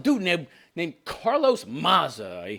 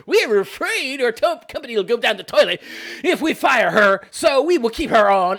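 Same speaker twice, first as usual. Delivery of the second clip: lightly hammed-up fretting; put-on anxious company voice; mock worried; 3 semitones higher, 4 dB louder than usual. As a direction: fret in mockery, half laughing. Voices the fearful company, laughing.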